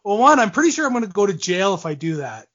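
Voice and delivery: amused, breaking into a laugh at the end; half-joking, laughing it off; retold joking reply. Player joking to his agent, laughing at the end. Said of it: "I'm like".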